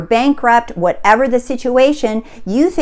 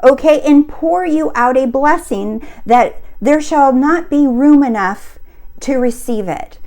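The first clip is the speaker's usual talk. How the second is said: raised, ringing voice of God's promise, higher; preacher voicing God's call to claim blessings, high and ringing; 5 semitones higher than usual. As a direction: proclaim it like scripture from on high. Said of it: "he's saying".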